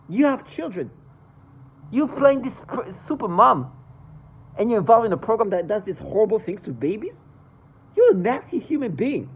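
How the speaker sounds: rising, loud furious accusation; lashing out at a mother she despises; furious outburst. Real, not acted. Ranting at mothers in the program, loud and furious.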